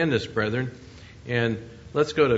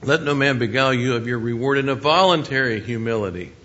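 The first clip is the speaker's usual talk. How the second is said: firm, louder verse reading; scripture reading; 5 dB louder than usual. Acted. Preacher cites a warning on false humility, scripture reading. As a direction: read it out, leaning on "voluntary humility".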